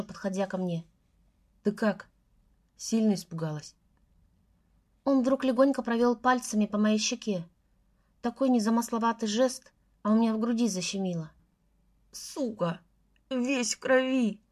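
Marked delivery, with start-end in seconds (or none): 1.6-3.7 gentle concern. A narrator's reading. Лёша tenderly asks heroine. 12.1-14.4 mild whimper, slow and hurt; a touch of a whining sob. A narrator's reading. Beaten Гриня whines about the blood, mildly whimpering. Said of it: "хныкал Гриня".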